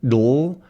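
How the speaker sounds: "dl" with the tongue held up through the l; syllabic dl. Shown as a demonstration. Teacher showing the tongue stays up through dl. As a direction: keep the tongue on the roof from d into l. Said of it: "when I say dl".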